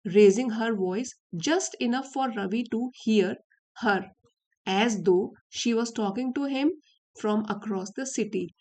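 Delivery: slow, deliberate reading of the English text; story reading. Acted. Teacher reads the story to her students, slow and careful. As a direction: read each phrase out slowly for learners.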